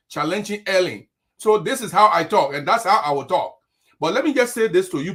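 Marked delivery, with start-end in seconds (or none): 1.4-3.6 "this is how I talk" punched out loudly; firm, loud stress on "how" in "how I talk"; emphatic. Real, not acted. Host telling listeners this is how he talks, emphatic. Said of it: "I like to say my things with emphasis".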